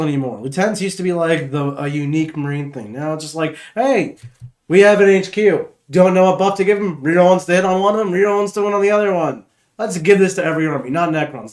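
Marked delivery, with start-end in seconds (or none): 3.7-11.5 mocking game designers. Mocking the rules writers' meeting.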